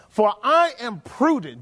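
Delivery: reading the verse as a proud boast; boastful king. Acted. Preacher voices the bragging king for the congregation, boastful. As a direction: puff up the words like a boasting king. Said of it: "Do you see him boasting".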